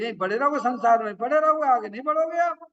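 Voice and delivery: high-pitched, rising exhortation; scolding plea pitched right up; emphatic warning. Real, not acted. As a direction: warn them urgently, voice climbing high. Teacher warns listeners they will stay stuck.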